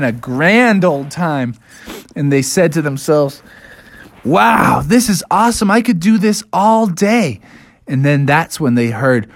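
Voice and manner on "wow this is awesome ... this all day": higher, swooping enthusiasm; delighted. Acted. Bears riding across the plains, delighted. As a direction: revel in the ride.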